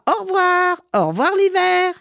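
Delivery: high joyful calling; joyful cry. Acted. Children cheering winter's departure, joyful cry. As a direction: wave goodbye with glee. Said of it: "criaient de joie".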